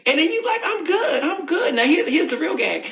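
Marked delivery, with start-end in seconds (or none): 0.6-1.7 high-pitched, airy brush-off; light, put-on politeness; breezy reply. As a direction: act perfectly fine in front of an ex.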